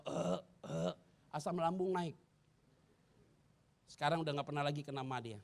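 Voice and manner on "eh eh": imitated burp. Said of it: "istri saya selalu sendawa".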